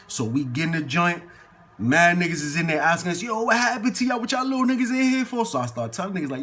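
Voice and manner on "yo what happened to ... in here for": higher-pitched mock questioning; put-on higher voice, curious; imitated nosy questioning. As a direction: quote the cellmates, pitched well up. Acting out cellmates questioning the boys.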